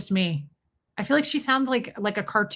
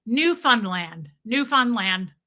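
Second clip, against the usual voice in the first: Newfoundland slowly, weight on NEW; stress on NEW in Newfoundland; slower than usual. Shown as a demonstration. Host following a correction, stress on NEW in Newfoundland. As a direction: practise Newfoundland, leaning on the first syllable NEW. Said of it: "The emphasis is on new".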